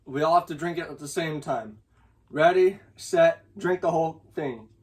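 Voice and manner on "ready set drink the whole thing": loud countdown. Real, not acted. Calling the countdown.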